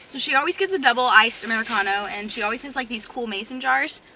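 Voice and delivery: talking while chewing gum. Real, not acted. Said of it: "sorry, I'm chewing gum".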